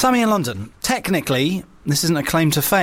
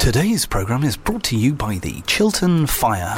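mock sponsor read; 3 semitones lower than usual.

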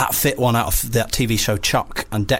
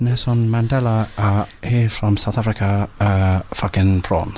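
put-on South African accent; 4 semitones lower than usual. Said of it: "it was meant to be Nelson, uh, Mandela".

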